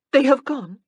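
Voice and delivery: high, loud shocked question; sudden high shocked question; dismayed surprise. Acted. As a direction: caught off guard and let down. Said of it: "Anna felt suddenly cold".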